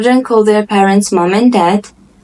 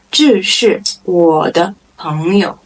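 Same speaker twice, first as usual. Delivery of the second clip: word by word for beginners. Shown as a demonstration. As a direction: separate the words, unhurried. Model sentence, slow first take.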